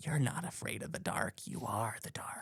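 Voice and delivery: very quiet, hushed, breathy whisper. Retelling a film scene of Longlegs making a doll: imitating Longlegs whispering. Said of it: "whispering it to her".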